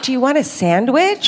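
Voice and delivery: sweet stewardess voice. Retold or imitated. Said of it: "It was like".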